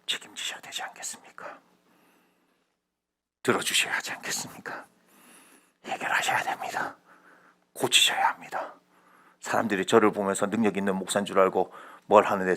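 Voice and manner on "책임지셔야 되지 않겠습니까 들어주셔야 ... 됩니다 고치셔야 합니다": hushed, breathy appeal to God; whispered plea. Acted. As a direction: whisper it as a confiding request. Acts handing burdens over to God.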